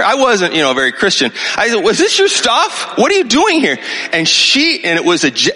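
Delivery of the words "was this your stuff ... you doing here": angry demand. Retold or imitated. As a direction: demand answers from the woman in his house. Confronting strangers in his house.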